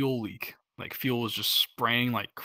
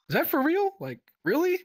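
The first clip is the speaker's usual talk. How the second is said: high, loud incredulous question; can't believe the call; disbelief; 4 dB louder than usual. Retold or imitated. Crew hearing the man overboard call, high disbelief.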